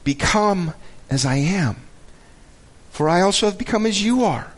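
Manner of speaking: heartfelt appeal read from a letter; expressive, measured Bible reading; earnest scripture reading. Acted. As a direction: read it like a personal plea, pausing between phrases. Reads scripture aloud.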